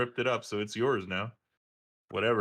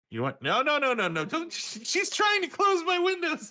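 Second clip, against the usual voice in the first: high, laughing no no no; laughing protest. Real, not acted. Father laughing at daughter closing his windows, high and giggly. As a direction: squeal with laughter as she grabs things. Toddler grabs dad's computer.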